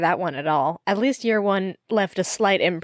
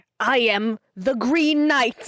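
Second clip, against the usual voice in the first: put-on New Jersey accent, pitched up; 5 semitones higher than usual. Imagining Medieval Times performers in New Jersey announcing themselves: New Jersey accent. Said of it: "talking with like Jersey accents".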